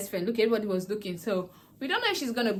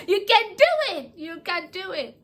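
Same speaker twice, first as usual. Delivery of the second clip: high, loud and slow, cheering the viewer on; rally them like a coach; big drawn-out cheer; cheering encouragement; 10 semitones higher, 8 dB louder, slower than usual. Shown as a demonstration. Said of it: "Yes, I believe in you".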